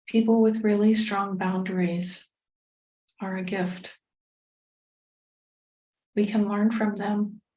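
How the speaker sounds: measured meditation guide with long pauses; guided meditation. Acted. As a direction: gently lead listeners inward, phrase by phrase.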